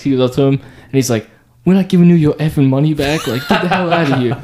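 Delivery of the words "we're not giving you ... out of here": higher, half-laughing tough-guy yell; mock tough yell. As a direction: play the cocky coworker telling him off, laughing through it. Coworker yelling at pimp.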